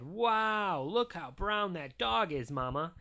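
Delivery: a touch of fatherly wonder, slowly marvelling; amazed Daddy. A narrator's reading. Daddy admiring the dog to Mama, lightly voiced amazement. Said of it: "And Daddy said".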